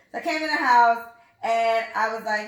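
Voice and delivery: usual speaking voice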